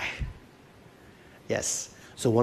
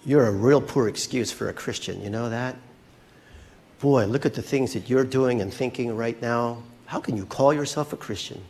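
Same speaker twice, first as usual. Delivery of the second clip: lightly voiced accuser, mostly lower; understated low, belittling accusation; voice of condemnation; 3 semitones lower than usual. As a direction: scold as the condemning voice in someone's head. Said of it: "you hear this voice of condemnation".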